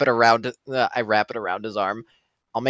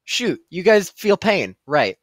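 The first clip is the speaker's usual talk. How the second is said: sudden realization; 9 semitones higher, 7 dB louder, slower than usual. Acted. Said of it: "I'm like".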